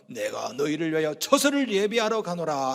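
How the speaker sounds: holy Jesus voice. Acted. Jesus promising disciples a place, holy and solemn. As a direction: intone it with mock solemnity. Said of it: "거룩하게".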